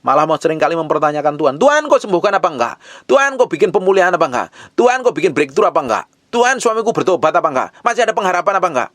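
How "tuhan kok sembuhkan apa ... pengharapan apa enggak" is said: higher, quick whiny pleading questions; mock whining at God, higher and faster; nagging God. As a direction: pester God like a fussy child, higher and faster. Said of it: "terlalu cerewet sama Tuhan".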